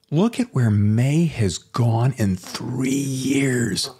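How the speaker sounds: very slow, drawn-out amazement; slow, proud gushing; admiring marvel. Retold or imitated. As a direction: stretch it out in retold wonder. Acts out admiring daydream thought.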